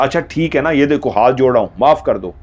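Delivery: curt, grudging apology, pitch pushed up; sorry but clearly annoyed; half-hearted tart apology; harsh apology. Retold or imitated. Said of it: "इस अंदाज में बोला".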